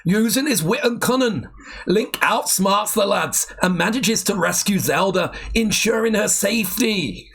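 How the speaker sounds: shaky-skilled mock Geordie narration; attempted Geordie accent. Taking over the Biker Grove script, attempted Geordie accent. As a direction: read it out in an amateur Geordie accent. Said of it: "It's not that I've not heard a Geordie accent".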